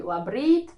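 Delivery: "labrīt" with the weight on RĪT; stress on second syllable. Shown as a demonstration. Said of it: "the stress is on the second syllable".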